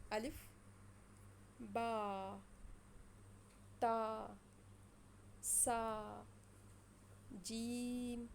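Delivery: letters spaced out for students to repeat; letter drill. Shown as a demonstration. Teacher reading alphabet for students to repeat, spaced letters. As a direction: say each letter alone, then pause. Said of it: "آپ نے میرے پیچھے پیچھے پڑھنا ہے".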